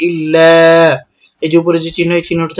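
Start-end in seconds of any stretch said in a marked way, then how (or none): 0.1-0.5 ইল্লা with the final "a" held about three beats; long madd. Shown as a demonstration. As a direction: stretch out the last vowel of ইল্লা. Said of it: "এখানে তিন আলিফ লম্বা করতে হবে".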